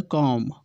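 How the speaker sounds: कॉम्ब ending on M, B left silent. Shown as a demonstration. Teacher shows students the silent letter in कॉम्ब, B left unspoken. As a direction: say कॉम्ब as "kom", no B sound. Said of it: "जो नहीं बोला जाता है".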